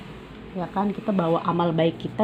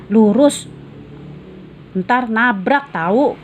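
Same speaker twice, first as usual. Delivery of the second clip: teasing joke; 3 semitones higher, slower than usual. Acted. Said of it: "kata Fadil membuat jengkel Raihan".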